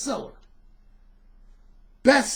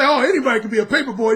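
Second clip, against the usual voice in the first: quick, laughing mock of the cliché; mocking quote; 3 dB louder, faster than usual. Mocking people who belittle paper boys, quick scoff. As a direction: toss it off like a dismissive know-it-all. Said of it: "When people say".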